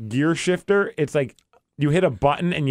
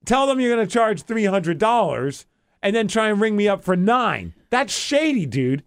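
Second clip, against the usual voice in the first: higher-pitched, heated accusation; retold indignant scolding; 5 semitones higher than usual. Customer accusing the rental clerk, indignant. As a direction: replay calling out a cheat.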